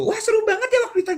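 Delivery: fast, high gushing recap; excited friend. Retold or imitated. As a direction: gush about the fun night. Friend excitedly recalls outing.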